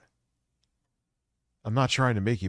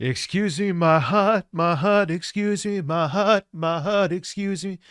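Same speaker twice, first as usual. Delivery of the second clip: high, loud parody of a protesting woman; rapid-fire mocking whine on repeat; mocking mimicry; 8 semitones higher, 6 dB louder than usual. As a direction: mimic her interrupted pleas, pitched way up. Mimics woman in played clip.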